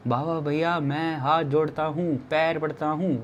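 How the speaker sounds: slow, drawn-out imitated plea; tearful pleading. Host begging trekkers by phone to return, mock-tearful plea. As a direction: beg slowly, lightly acting the tears. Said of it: "आंखों से आंसू वाला रो रहे हैं".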